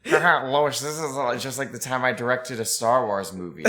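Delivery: Peter Griffin impression. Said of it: "a Family Guy Star Wars".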